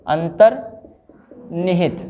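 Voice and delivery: अंतर्निहित drawn out slowly, each syllable separate; slow dictation. Shown as a demonstration. Teacher spelling out a word for students, slow. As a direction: say अंतर्निहित slowly so they can write it.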